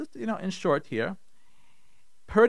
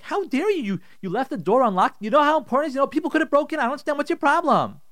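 high-pitched, indignant outburst; acted angry husband; 9 semitones higher, faster than usual. Husband waking his wife over the unlocked door, angry. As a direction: confront her in high-pitched outrage. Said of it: "in his anger, in his kas".

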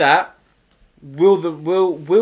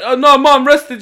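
much higher, louder sing-song excuse; mock innocent reply; 10 semitones higher, 9 dB louder than usual. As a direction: pretend all is fine, high and loud. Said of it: "I was like".

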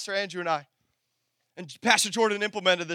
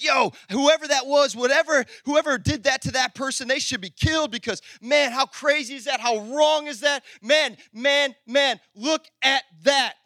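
mock angry outrage; 2 semitones higher than usual. Preacher acting David's reaction to Nathan's story, indignantly angry. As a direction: act out being appalled at a wrong. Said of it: "He gets so angry".

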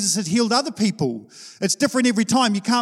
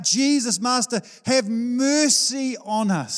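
crying out; 5 semitones higher, slower than usual. Retold or imitated. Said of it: "they're crying out".

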